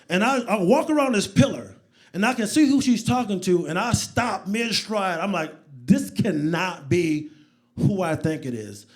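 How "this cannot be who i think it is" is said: slow, deliberate, word by word; halting, incredulous realisation; stunned disbelief. Retold or imitated. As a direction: space the words out in disbelief. Stops mid-stride in disbelief.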